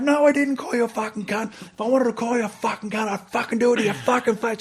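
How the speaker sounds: hammed-up talking back to a superior; yelling back. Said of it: "this big yelling match".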